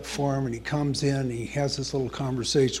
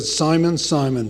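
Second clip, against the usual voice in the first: louder, ringing call of the name; proclaimed call; 6 dB louder than usual. Acted. The Lord calling out to Simon, louder and ringing.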